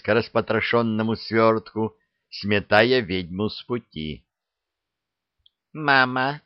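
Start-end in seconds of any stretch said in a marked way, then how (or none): 5.7-6.4 put-on high happy baby squeal; delighted little cry to the dragon; joyful squeak. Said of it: "радостно пискнула добыча".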